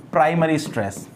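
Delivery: प्राइमरी stress said firmly as the answer; drilled answer. Shown as a demonstration. Teacher answering own question for students. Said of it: "उसको क्या बोल देते हैं?".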